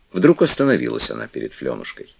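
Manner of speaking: plain reading voice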